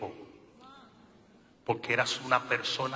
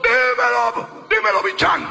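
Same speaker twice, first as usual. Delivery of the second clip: mock Dominican accent; 9 semitones higher, 15 dB louder, slower than usual. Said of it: "hablan como dominicanos".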